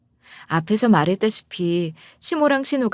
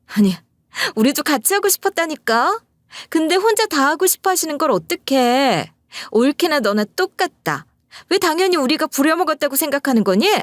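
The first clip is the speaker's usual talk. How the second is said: much higher, sharp sister-in-law needling; 7 semitones higher than usual. Retold or imitated. Sister-in-law needling her brother over the phone, sharp and high. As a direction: jab back, pitched way up and snippy. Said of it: "톡 쏘는 목소리로".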